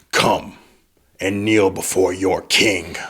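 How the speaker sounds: slow commanding king voice; ancient rasping undead king. Acted. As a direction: order them down, slowly. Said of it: "He goes".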